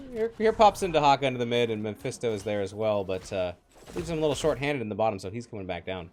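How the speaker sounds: laggy robotic Discord audio; glitchy robot-sounding call. Real, not acted. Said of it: "sounds like you're a robot".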